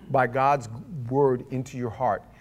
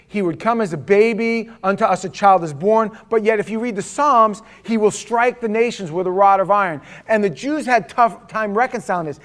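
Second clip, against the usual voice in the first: raised, emphatic sermon voice; impassioned preaching; 5 semitones higher, 8 dB louder than usual. Real, not acted. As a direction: drive the teaching home to the congregation. Preaches at full force.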